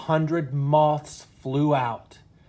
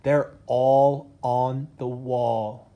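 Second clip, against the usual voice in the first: slow, hushed, frightened; a touch of fear, drawn out; trembly whisper; much slower than usual. Acted. Missus Bear frightened by shadows on the wall, slow and hushed. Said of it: "in a trembly whisper".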